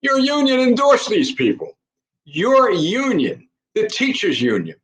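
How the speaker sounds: indignant host calling out the unions; pointed accusation. Real, not acted. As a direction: jab the accusation at them.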